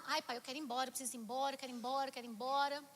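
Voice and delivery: low, soft, rapid insistent repeats; quiet run-on nagging plea; pleading to leave. Retold or imitated. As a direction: beg dad under the breath, over and over. Child pleading with father to leave.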